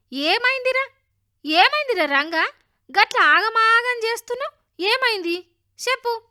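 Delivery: loud, high, urgent questioning; flustered mother. A narrator's reading. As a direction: demand to know what the fuss is. Mother answers her son's shouting.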